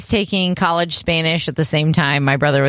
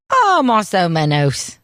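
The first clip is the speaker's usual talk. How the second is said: Spanish in a British accent; slower than usual. Shown as a demonstration. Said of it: "in a British accent".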